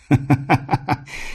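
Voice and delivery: king's contemptuous guffaw; scornful laugh. A narrator's reading. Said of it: "презрительно расхохотался".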